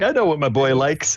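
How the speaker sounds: a hint of a chummy dad; lightly voiced dad. Dad to his boy on the way to eat, lightly voiced. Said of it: "He's like".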